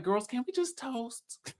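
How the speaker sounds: slow, high, airy little plea; mock dainty plea. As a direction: play the sweet one begging for a toast. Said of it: "And she's like".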